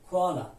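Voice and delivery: کوالا starting on a plain k; k sound. Shown as a demonstration. («کوالا» با صدای ک)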